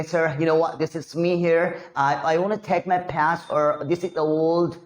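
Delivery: slow, stretched American-style English; put-on American accent. Shown as a demonstration. Teacher showing how to address sir, American accent. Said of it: "किस तरीके से बोलेंगे".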